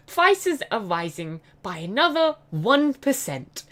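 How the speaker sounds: slow mock news announcement; mock newsreader. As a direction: parody a solemn news read. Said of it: "And on the next news".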